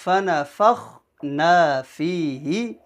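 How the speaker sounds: slow, measured Quran recitation; careful teaching recital, syllables drawn out; verse recitation. Shown as a demonstration. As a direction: recite with long held vowels. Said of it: "یہ پوری آیت میں پڑھتا ہوں".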